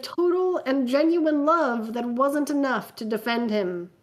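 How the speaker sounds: measured, dramatic fanfic reading; story narration. A narrator's reading. Reading a fanfic aloud to friends, dramatic narration.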